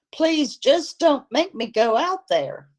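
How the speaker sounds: high, strained plea full of fear; high-pitched terror. Acted. Maggie pleading with Vic not to send her out, high and terrified. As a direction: beg in a high, frightened voice. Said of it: "her voice was still high-pitched with terror".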